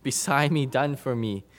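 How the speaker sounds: mock protest, building in volume; voiced grumbling objection. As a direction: play the objecting listener, mildly indignant. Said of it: "I know what you're thinking".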